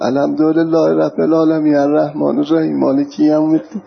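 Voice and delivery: Quran verse recited in a regional Iranian accent. Shown as a demonstration. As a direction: demonstrate reciting with a local Persian accent. (تلاوت با لهجهٔ محلی)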